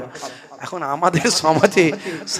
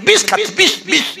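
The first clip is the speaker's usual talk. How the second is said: rising, incredulous snap of বিষ; father-in-law furious at the son; mock angry shout; angry old man; 12 semitones higher, 4 dB louder than usual. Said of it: "রেগে গেছে শ্বশুর".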